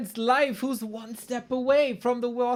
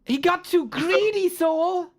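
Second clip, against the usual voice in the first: excited; 9 semitones higher, slower than usual. Real, not acted. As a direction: react in stunned disbelief. Caster reacts to game loss.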